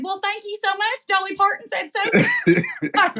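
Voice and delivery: mock sassy comeback, half laughing; a playful snap with a laugh; lightly voiced sass, slowing at the end; sassy snap back. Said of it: "snapped back and said".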